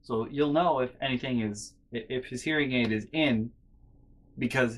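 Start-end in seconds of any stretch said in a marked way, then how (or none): none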